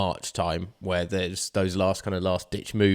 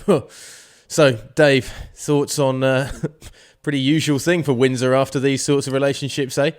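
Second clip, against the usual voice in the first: louder, higher, faux-sympathetic jab; mock sarcastic interviewer; 3 semitones higher, 4 dB louder than usual. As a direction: needle him like a smug interviewer. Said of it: "I mean, it's a bit mean".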